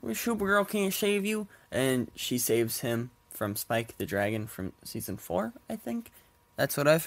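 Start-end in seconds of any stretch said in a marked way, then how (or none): 0.0-1.5 high-pitched mock doom warning; ominous doom prophet. Podcaster retelling the episode's villain, mock ominous. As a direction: lightly ham up the doomsayer's threat. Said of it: "this guy going".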